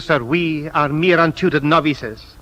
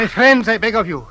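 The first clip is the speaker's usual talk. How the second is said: higher and louder, cutting in to stop them; urgent plea; 7 semitones higher, 6 dB louder than usual. Acted. Peacemaker cuts into the quarrel with a loud, urgent plea. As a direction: raise your voice to calm the room.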